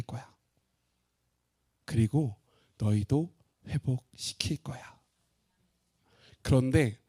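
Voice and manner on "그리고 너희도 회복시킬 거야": slow, hushed whispered promise. Acted. God promising his people restoration, slow whisper. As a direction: whisper it tenderly and slowly.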